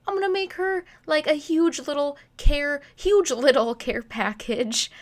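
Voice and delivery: bright, loud and eager; excited. Retold or imitated. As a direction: gush with sudden excitement. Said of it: "and I was like".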